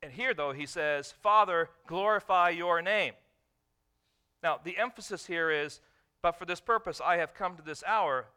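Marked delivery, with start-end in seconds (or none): 1.1-8.3 loud, ringing proclamation of Father; proclaimed prayer. Acted. Preacher voicing Jesus to the Father, loud proclamation. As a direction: call it out like a public prayer.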